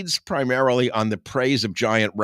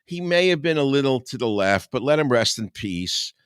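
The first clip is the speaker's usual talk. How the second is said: mock pious voice; 4 semitones higher, 3 dB louder than usual.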